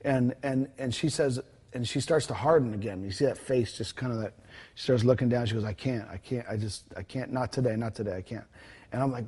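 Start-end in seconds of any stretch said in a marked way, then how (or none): 5.6-8.4 low defeated murmur. Retold or imitated. Woman hardening, looking down.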